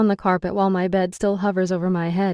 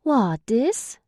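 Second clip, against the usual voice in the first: mock Irish lilt, higher; mocking his Irish accent, wide-eyed; 6 semitones higher than usual. A narrator's reading. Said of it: "using his accent to mock him".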